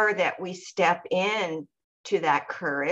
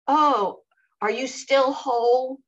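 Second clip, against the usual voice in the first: raised, mock-teasing question; 5 semitones higher, 4 dB louder than usual. Dancer teasing her about her book, mock-teasing. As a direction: imitate a teasing dancer, voice lifted. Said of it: "he started teasing me about it".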